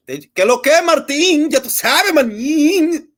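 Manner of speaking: high, loud Dominican-slang hail; excited greeting. Real, not acted. Greeting a chat viewer named Martin, high and excited.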